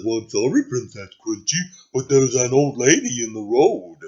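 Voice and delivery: meek servant voice; lightly voiced nervous carriage driver; apologetic driver. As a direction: explain apologetically to a royal boss.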